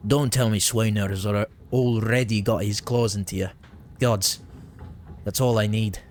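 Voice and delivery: light Irish-Scottish lilt; a bad Scottish-Irish miller accent. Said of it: "horrible Irish, Scottish accent".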